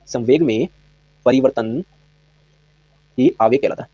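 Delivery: slow, word-by-word dictation with pauses. Shown as a demonstration. Teacher dictating a definition to students, slow and spaced. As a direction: spell it out slowly so students can write. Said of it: "इसको लिख लीजिए".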